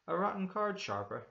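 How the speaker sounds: high, loud, scornful outburst; indignant cry. A narrator's reading. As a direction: cry out, offended at the very idea. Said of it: "he cried".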